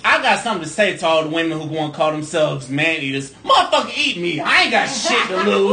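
half-laughing mock pickup speech; hammed-up bold come-on; mock speech to man eaters. Guest mock-addresses women who call themselves man eaters, laughing. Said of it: "I'll tell her".

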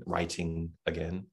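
a touch of Southern accent on writing again; lightly put-on Texas Southern accent. Shown as a demonstration. Guest jokes to the host in his Southern accent. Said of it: "That was my Southern accent".

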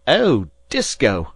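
a choked, high, loud cry of the name; overcome cry. A narrator's reading. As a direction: call out to him overwhelmed with feeling. Father's overwhelmed cry to skipper.

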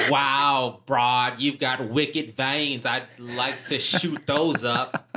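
put-on slow, drawn-out Boston accent that slips toward Australian; bad Boston accent. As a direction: badly fake a thick Quincy accent. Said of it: "he had a thick Quincy accent".

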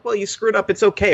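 gently consoling a failed baker, high and mock sweet; mock reassuring. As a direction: coo it like a kindly judge. Mimicking kindly show judges.

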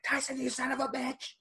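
high, hammed-up heel threat; mock wrestling promo yell. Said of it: "he's like".

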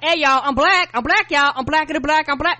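loud, high, over-eager announcing; hammed-up shouting, repeating insistently; mock fake black persona. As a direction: blare it out like a clumsy impostor. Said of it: "No, we don't talk like that".

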